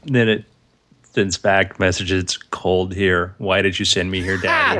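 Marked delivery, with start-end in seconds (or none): 2.2-4.8 put-on probe as sad child.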